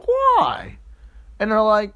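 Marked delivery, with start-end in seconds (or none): 0.1-0.8 mock alarm. Asks friends in story, alarmed.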